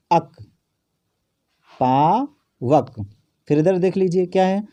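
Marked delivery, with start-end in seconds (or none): 1.8-2.9 "पावक" stretched very slowly, each syllable held; slowly sounded out. Shown as a demonstration. Teacher models "पावक" slowly for pupils. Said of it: "इतना आप उच्चारित कीजिए".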